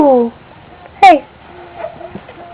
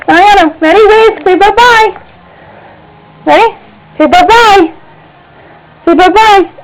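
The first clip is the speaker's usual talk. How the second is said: higher singsong bye-bye; 6 semitones higher than usual. Real, not acted. Mother prompting her baby to wave bye-bye, higher.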